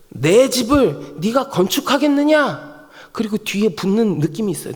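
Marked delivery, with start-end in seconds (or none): 0.1-2.8 slow, higher-pitched stern demand; stern God. Acted. God questions David about building a house, stern demand. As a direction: challenge them with weighty, drawn-out words. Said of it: "이런 말씀 아니에요".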